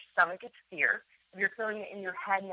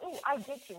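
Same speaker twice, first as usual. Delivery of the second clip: eager delight; 5 semitones higher, 4 dB quieter than usual. Shown as a demonstration. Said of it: "a totally different energy".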